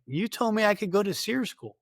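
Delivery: high-pitched retold protest. Soldier defending himself to B team, protesting.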